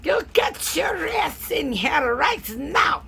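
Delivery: hammed-up Russian-accented yelling; yelling Russian grandmother. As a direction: bellow orders like a furious Russian grandmother. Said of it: "she was yelling at me in Russian".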